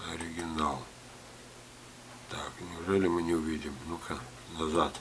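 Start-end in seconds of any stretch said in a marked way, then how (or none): none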